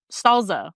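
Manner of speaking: "Salsa" with a z sound. Retold or imitated. Imitating her dad's "Salsa" with a z. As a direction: say "Salsa" with a buzzing z. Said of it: "like, with a Z".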